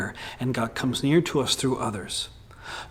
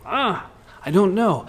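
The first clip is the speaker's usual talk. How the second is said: high, dragged-out meh of a griever who's unsure; mock unsure shrug; 6 semitones higher than usual. A grieving person's unsure reply, high. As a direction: shrug the words off, voice way up. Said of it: "we might say".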